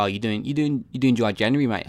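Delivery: lightly put-on Australian voice; Australian accent. Mate asking about dry January, light Australian accent. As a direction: ask it like a chummy Australian mate. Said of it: "I don't know why Australian".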